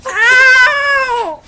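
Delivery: laughing through loud pain; half laugh, half yelp; stinging pain. Real, not acted. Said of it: "that stings".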